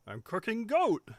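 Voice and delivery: proud, slow-witted brute at the stove; half Sloth, half Lenny. Acted. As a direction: draw it out like a simple oaf. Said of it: "half Sloth and half Lenny".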